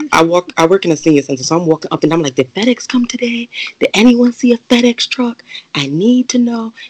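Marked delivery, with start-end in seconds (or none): 2.3-6.7 put-on frantic, high-pitched yelling, calling out. Walking into the senior center where she works, asking about fedex, retelling a yell. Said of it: "So as I'm yelling".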